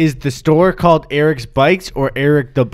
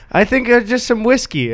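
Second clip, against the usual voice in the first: mumbled answer; 10 semitones higher than usual. Retold or imitated. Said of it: "They're like".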